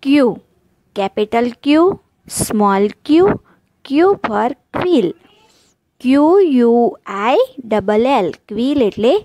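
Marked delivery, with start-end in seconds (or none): 3.9-5.1 put-on very slow, each word spelled out for kids; slow classroom model reading; slow demo reading. Shown as a demonstration. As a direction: read it slowly so children can copy. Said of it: "ઉચ્ચાર શીખીશું".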